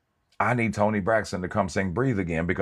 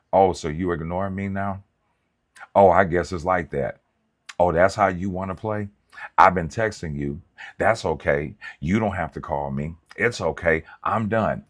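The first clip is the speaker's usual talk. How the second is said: mock clingy partner's rising complaints, louder; hammed-up texting rant, pushed louder; controlling partner; 4 dB louder than usual. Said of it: "A compulsive person that wants control would say".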